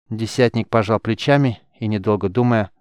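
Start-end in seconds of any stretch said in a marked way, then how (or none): none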